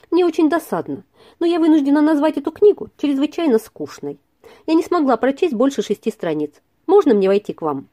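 lightly voiced cheerful young woman; teasing her gently, a touch bright; a hint of playful girl; cheerful girlish voice. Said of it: "нежный голосок весело произнёс".

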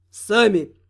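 low, sly gloating word; sly smirk. Acted. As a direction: smirk it out cunningly. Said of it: "коварно усмехнулся Тёмный".

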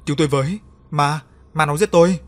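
gào lên cao và to, kinh hãi tột độ; hét cầu cứu như bị ma đuổi; kêu cứu hoảng loạn. Acted. Victim screams for help at ghost. (người sắp chết kêu cứu trong hoảng sợ, la thất thanh)

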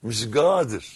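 Sa'idi accent, hard g opening قادر; Upper Egyptian accent. Shown as a demonstration. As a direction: say قادر as "gader", Sa'idi style. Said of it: "بالصعيدي".

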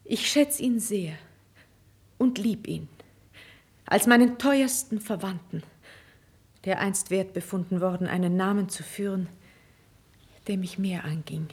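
soft, measured avowal; low, sincere admission; tender confession. Acted. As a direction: confess it quietly, with pauses. Queen confesses her affection for him.

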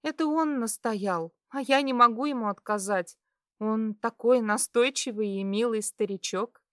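high, lively female voice, self-justifying; embarrassed girl. A narrator's reading. Blushing girl excusing herself to patient, high and flustered.

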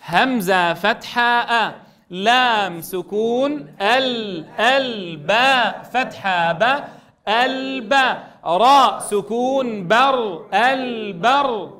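slow, drawn-out spelling for the class to follow. Shown as a demonstration. Teacher leading students in spelling. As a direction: lead the class through each syllable slowly. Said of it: "يلا نستعين بالله مبتدئين جميعا".

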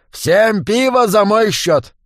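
high, slow, commanding call; loud order. A narrator's reading. Assassin orders beer for everyone, loudly. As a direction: order it loudly across the bar. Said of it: "громко приказал".

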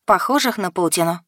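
plain reading voice

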